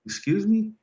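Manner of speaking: a high, disbelieving "excuse me?"; stunned surprise. Retold or imitated. Father hearing the nurse's message, high and stunned. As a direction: jump way up in pitch in sheer shock. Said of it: "And I".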